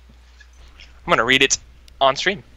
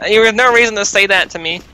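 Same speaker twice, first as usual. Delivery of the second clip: nerdy voice; 9 semitones higher than usual. Acted. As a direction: pitch it up and whine like a nerd. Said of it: "give him a really nerdy voice".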